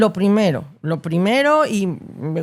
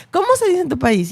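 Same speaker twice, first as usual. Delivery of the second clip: higher, lively, delighted question; eager curiosity; 8 semitones higher, faster than usual. Retold or imitated. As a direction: ask it like you can't wait to hear the answer. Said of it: "muy sabroso cuando es".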